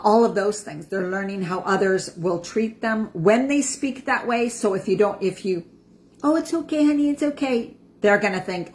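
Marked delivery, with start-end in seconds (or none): 6.2-7.8 high, coddling soothing voice; coddling soothe. Retold or imitated. Parent cooing over an upset child, mock soothing. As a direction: coo it to the child like a doting parent.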